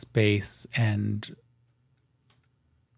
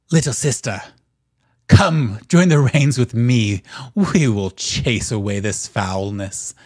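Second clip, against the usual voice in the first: louder, rousing call to a sister; a wild spirit rallying his kin; wild masculine voice; 6 dB louder than usual. Acted. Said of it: "masculine and wild".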